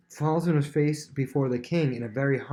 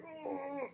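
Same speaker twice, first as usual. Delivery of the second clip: nervous gasp; 12 dB quieter than usual. Retold or imitated. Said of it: "if I'm ever really nervous".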